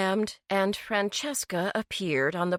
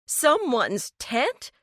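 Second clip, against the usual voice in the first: higher, slow, shocked rise; horrified question; 7 semitones higher, slower than usual. A narrator's reading. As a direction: repeat it as if it can't be true. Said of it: "Eleanor sounded horrified".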